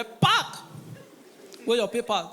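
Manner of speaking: a checkpoint cop yelling at a driver; mock police shout at a driver; police bark. Police stopping a van.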